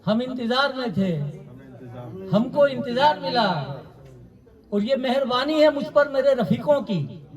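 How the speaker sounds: measured Urdu verse delivery, falling line ends; poetry recitation. Acted. Poet reciting his couplets to a mushaira audience, measured recitation. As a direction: recite the couplet in set phrases with pauses.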